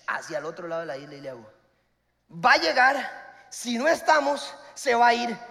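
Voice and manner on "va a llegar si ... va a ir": slow then louder urgent push; mock urgent shout to run; urgent order. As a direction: rush her back to the boat. Urging to run back.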